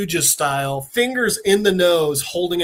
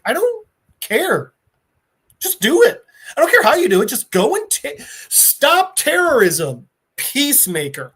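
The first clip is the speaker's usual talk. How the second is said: exasperated boss yelling; 7 semitones higher, 4 dB louder than usual. Retold or imitated. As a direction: shout down an annoying agent, fed up. Waller yelling at Peacemaker.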